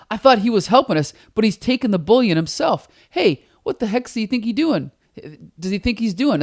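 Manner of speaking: high puzzled thug voice; confused guard. Retold or imitated. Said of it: "the one guy's like".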